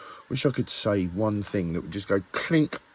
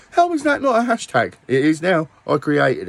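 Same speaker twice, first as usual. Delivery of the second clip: louder, higher exclamation; 5 semitones higher, 6 dB louder than usual. Real, not acted. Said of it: "repeats the question louder".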